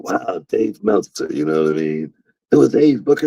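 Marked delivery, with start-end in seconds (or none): 0.0-1.3 mock awe. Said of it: "And I'm like".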